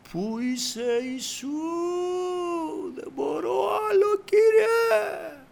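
very high, strained wailing cry; heartbroken crying out. Retold or imitated. Preacher re-enacts calling Jesus while driving brokenhearted, high wailing cry. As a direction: wail out in desperation, building to a shout. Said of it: "έσπασε η καρδιά μου και φωνάζω".

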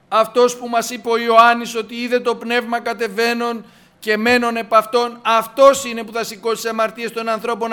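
loud, driving, level-pitched proclamation; impassioned preaching. Real, not acted. Preacher proclaims scripture to the faithful, declaiming forcefully.

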